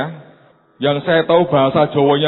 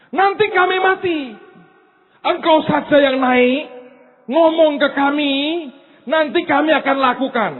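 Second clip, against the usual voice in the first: fearful plea; 11 semitones higher than usual. Acted. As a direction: beg like a scared crowd. Frightened people pleading.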